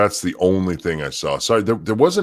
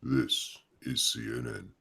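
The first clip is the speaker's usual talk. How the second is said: news anchor voice; 4 semitones higher, 13 dB quieter than usual. Pretend. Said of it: "can you say".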